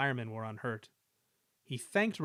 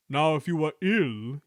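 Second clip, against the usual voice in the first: sly wink; 2 semitones higher, 6 dB louder than usual. A narrator's reading. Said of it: "he winked".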